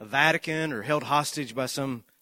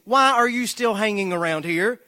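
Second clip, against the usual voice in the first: louder and higher exasperated shouting; preacher yelling at the lingering congregation, loud and high; 5 semitones higher, 4 dB louder than usual. Retold or imitated. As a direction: fling the questions at the whole room. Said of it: "He then yells at the rest of the congregation".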